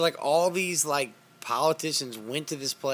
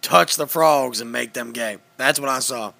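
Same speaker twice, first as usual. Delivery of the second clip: lightly voiced, louder ranting host; Alex Jones impression; 5 dB louder than usual. Doing Alex Jones for friends on a podcast, mild loud rant. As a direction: rant on with mock certainty. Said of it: "This is Alex Jones reporting to you".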